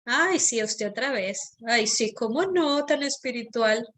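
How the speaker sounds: mocking, sneering self-talk, light performance; sarcastic inner voice. Shown as a demonstration. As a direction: play the snide voice in your head. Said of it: "Ese es un tono sarcástico".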